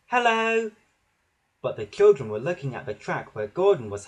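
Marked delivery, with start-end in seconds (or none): 0.1-0.7 high, held-out greeting; peeping. A narrator's reading. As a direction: call out in a high peep. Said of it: "Percy peeped".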